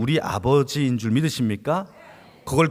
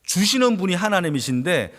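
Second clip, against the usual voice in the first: ordinary delivery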